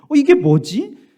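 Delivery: high, slow, bewildered "어, 이게 뭐지?"; drawn-out mock bewilderment; puzzled surprise. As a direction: stop short, baffled by the wall. Acted puzzled thought on hitting wall.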